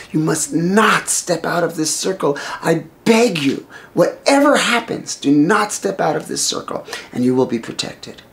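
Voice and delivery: emphatic, beseeching instruction; earnest warning. Acted. Brother-in-law warns wife to stay in the circle, beseeching. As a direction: implore her, leaning on each warning. Lakshmana begs Sita stay inside.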